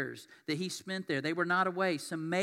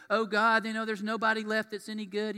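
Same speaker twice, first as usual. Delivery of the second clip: frustrated cry; 5 semitones higher, 8 dB louder than usual. Acted. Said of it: "prophets got frustrated and go".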